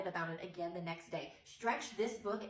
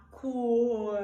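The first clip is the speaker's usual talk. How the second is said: quail yawn; 2 semitones higher, 7 dB louder than usual. Shown as a demonstration. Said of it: "Let's yawn".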